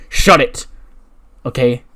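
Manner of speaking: loud curt snap; angry snap. Retold or imitated. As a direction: shut him down loudly. Annoyed retort.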